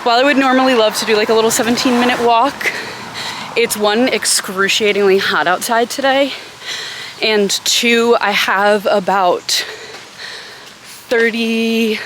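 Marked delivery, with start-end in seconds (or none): 0.0-8.2 rushed breathless words; gasping for air mid-sentence; out of breath. Real, not acted. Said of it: "I'm really out of breath".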